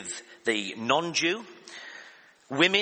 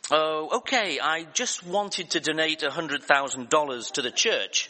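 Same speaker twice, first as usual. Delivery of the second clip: a hint of a country drawl; 3 semitones higher than usual. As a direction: lightly imitate a countrified caller. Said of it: "said in his country drawl".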